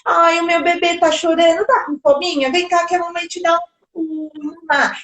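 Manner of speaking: put-on mommy talking to her baby; doting mother. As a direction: coo soothingly at a fussing infant. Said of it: "a mãe chega".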